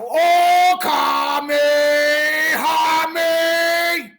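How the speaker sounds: drawn-out Kamehameha charge-up; half-hearted anime power-up; anime attack charge. Pretend. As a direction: start the Kamehameha wave then lose steam. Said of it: "That was a failed Kamehameha wave".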